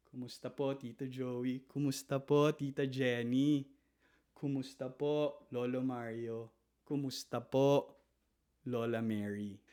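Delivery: soft greetings, each rising on po; a humble little bow in the voice; deferential lilt. Shown as a demonstration. Greeting each elder of the family, soft and respectful. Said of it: "There is a lilt that goes with the head".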